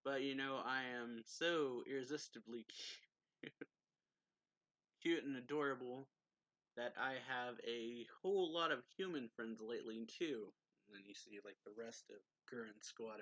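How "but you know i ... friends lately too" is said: mock boastful chuckle, a bit louder; laughing. Farid laughing off the vampire's insult, a hint of a laugh. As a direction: tease him while laughing at yourself.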